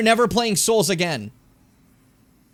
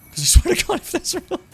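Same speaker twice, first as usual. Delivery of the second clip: high, loud indignant burst then breath; exasperated threat trailing off; outraged; 12 semitones higher, 5 dB louder than usual. Real, not acted. Outrage at remake news.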